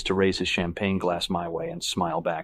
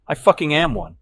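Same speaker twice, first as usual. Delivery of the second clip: angry; 8 semitones higher, 8 dB louder than usual. Acted. Patrick snapping.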